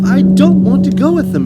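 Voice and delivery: loud, high desperate shout. A narrator's reading. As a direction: shout it out suddenly. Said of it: "Matilda shouted suddenly".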